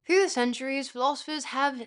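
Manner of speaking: slipping into a British accent. Real, not acted. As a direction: read it with an unplanned British accent. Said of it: "I switched into a British accent there".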